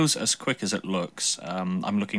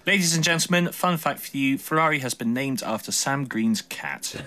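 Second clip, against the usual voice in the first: announcer voice; 6 semitones higher than usual. Pretend. Mock announcement to audience.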